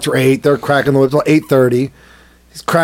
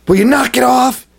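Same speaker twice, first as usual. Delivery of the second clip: higher-pitched mock-annoyed neighbour; annoyed complaint; 6 semitones higher than usual. Neighbour interrupting the whip cracking, mock annoyed. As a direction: imitate a neighbour's irritated demand.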